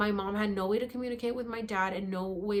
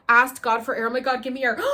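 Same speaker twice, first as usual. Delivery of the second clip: pleading for air; 3 semitones higher, 10 dB louder than usual. Retold or imitated. Panicked retelling of choking.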